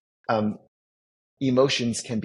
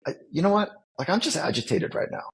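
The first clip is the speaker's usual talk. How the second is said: imitating someone irritated and unaware, pitched higher; a put-upon, higher mock complaint; playing the agitated guy, voice pitched up; 7 semitones higher, faster than usual. Voicing an agitated unaware person.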